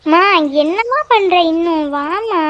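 drawn-out, impatient call for mother; yelling for mom. Acted. Daughter running late summons her mother, yelling for her. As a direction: slowly call out, stretching the words. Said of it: "எதுக்குடி இப்படி கத்திக்கிட்டு இருக்க".

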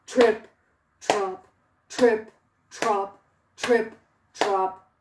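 low, loud, slow stomping trip trop; heavy big hoofsteps. Acted. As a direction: stomp like the biggest goat. Biggest goat's heavy hoofsteps.

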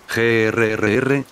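slow, drawn-out mock growl; annoyed growl. Majin Buu can't catch the chocolate, slow annoyed growl. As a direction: growl out the frustration. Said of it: "gruñó molesto".

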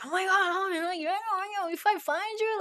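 high, fast, mock-furious "oh my God"; furious at the mouse. Imagining a mouse that ate your cake, mock fury. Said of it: "How do you feel?".

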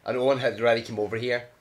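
talking through hiccups; hiccuping. Real, not acted. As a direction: hiccups breaking the words. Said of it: "I am hiccuping there".

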